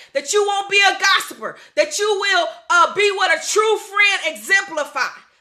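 preaching at full force, decreeing over the people; fervent prayer. Acted. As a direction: declare it over them like a pastor in prayer.

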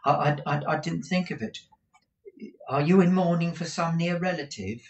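falter, then ask in a high voice; flustered apology. A narrator's reading. Companion apologising to mourning Kate, flustered and high.

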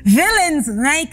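slow, with mouth held open; words mangled by a mouth stretcher; lips stretched wide. Acted. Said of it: "I'll say it again for everybody".

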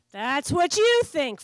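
slow, knowing warning. Acted. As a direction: warn him ominously. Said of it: "Frankie warns".

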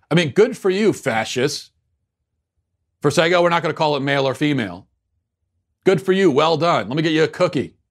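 pat them on the head with heavy sarcasm; sarcastic praise. Acted. Host mocking the aquarium staff with sarcastic praise.

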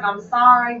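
high, loud apology after a laugh; amused apology. Retold or imitated. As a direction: retell a laughing, over-the-top sorry. Laughing, acts out her apology.

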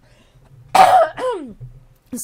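loud throaty cough; chesty cough. Real, not acted. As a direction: cough hard to clear the throat. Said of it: "przepraszam was bardzo za ten kaszel".

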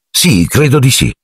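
impatient, hurried agreement; brisk, dismissive. A narrator's reading. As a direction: toss it off briskly. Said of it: "in tono sbrigativo".

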